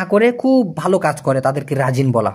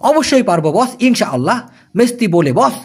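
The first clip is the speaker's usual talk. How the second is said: louder; 3 semitones higher than usual. Shown as a demonstration. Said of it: "এটা একটু জোরে বলবেন".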